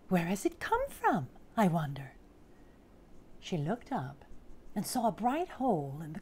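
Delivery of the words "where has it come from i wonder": curious little elf. Acted. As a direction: puzzle aloud like a storybook elf. Elf puzzles over the egg.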